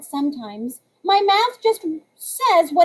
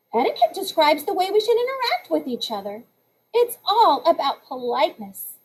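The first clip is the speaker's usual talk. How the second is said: quick, prim lecturing voice; Tiffany giving a speech; 3 semitones higher than usual. Acted. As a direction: read it like a know-it-all classmate. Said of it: "Tiffany began".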